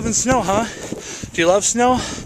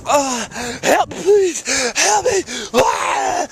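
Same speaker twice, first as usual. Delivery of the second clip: high, pleading call of help; half-joking cry for help; 7 semitones higher, much slower than usual. Real, not acted. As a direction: plead for help while stuck. Stuck in snow, calling for help.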